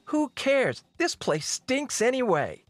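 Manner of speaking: high, dismissive outburst; exasperated, high-pitched princess; impatient retort. Acted. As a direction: brush off the worry, pitch way up. Impatient retort while fleeing.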